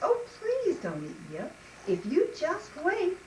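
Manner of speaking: high, imploring little voice; small goat's earnest plea; pleading little goat. Acted. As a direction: beg the troll for mercy. Middle goat begs the troll.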